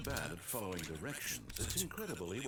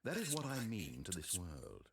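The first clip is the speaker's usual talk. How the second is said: vast deep cosmic voice; 4 semitones lower, 16 dB louder than usual. Acted. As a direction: speak like a distant god. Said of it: "He's talking like God".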